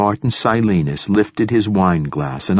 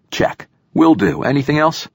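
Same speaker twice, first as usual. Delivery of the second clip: breezy mock compliance, rising high; sarcastic; 8 semitones higher than usual. A narrator's reading. Narrator sarcastically accepting an impossible mission, sarcastic. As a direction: tick off the orders with sarcasm. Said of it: "sarcasm dripping from my tongue".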